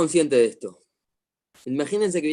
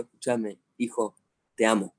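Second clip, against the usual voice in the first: tender to son; 3 semitones lower than usual. Retold or imitated. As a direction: tell your son you love him, gently. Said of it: "lo miro a los ojos y le digo".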